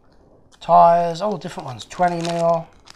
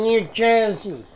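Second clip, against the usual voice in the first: slow, half-hearted try at an American accent; badly faked American accent; attempted American accent; 5 semitones higher, slower than usual. Shown as a demonstration. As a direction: have an unconvincing go at American. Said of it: "I can't do an American accent".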